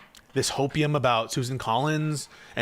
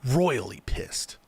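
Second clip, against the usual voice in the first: royally pissed; 3 semitones lower, 3 dB quieter, much slower than usual. Real, not acted. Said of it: "I'm kinda pissed".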